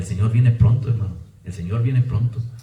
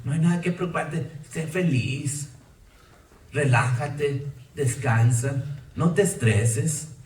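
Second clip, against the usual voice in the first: mock carefree advice; 3 dB quieter, slower than usual. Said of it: "Así muchos decían en inglés".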